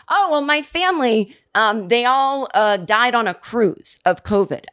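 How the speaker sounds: mock grieving caller. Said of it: "What if my family".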